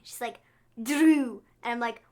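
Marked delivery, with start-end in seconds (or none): 0.8-1.4 imitating Zelina's accented Drew; mock Scottish-tinged Drew; a hint of a fake Scottish accent; Zelina's odd Drew. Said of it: "she always says Drew so weirdly".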